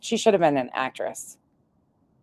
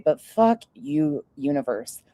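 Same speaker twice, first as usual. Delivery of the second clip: mock defiant curse; slower than usual. Ranting at the universe.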